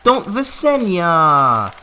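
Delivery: drawn-out slow yell of protest; desperate shout. Real, not acted. Player shouting at the dragon Visenya, desperate. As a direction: shout her name to stop her. Pleading with dragon not to burn.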